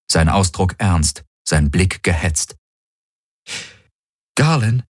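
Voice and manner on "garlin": higher, wistful questioning call. A narrator's reading. Admiral sees a familiar face on screen, wistful. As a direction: say the name with a touch of melancholy. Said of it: "überrascht von dem Wehmut".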